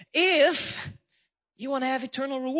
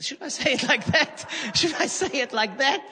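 lightly put-on sheepish voice; playful husband checking in; mock asking wife. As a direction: ask the wife with a joking hesitation. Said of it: "check it with my wife first".

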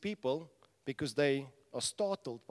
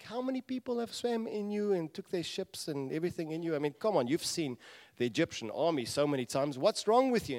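rising, louder incredulous ranting; hammed-up what's wrong with you, higher and louder; exasperated elements; 4 semitones higher, 5 dB louder than usual. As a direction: pile it on in mock disbelief. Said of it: "It's like".

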